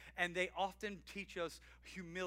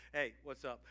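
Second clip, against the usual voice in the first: lower, offhand mumbled hey; passive greeting; 6 semitones lower than usual. Shown as a demonstration. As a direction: toss off a bored greeting. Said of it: "give a passive answer to a kid".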